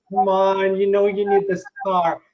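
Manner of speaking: lightly voiced cheesy used car pitch; a hint of in-your-face salesman. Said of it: "very cheesy, you know, kind of in your face".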